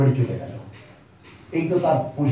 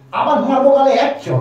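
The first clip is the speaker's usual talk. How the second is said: louder, higher threat to slap; angry threat; 6 semitones higher, 5 dB louder than usual. Retold or imitated. Mother threatening her son with a slap, loud and angry. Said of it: "মা বলেছে".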